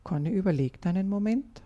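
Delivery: put-on calm storyteller reading a children's tale; gentle read-aloud storytelling; story narration. A narrator's reading. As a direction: read it like a bedtime story for kids.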